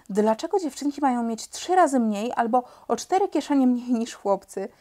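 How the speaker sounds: usual speaking voice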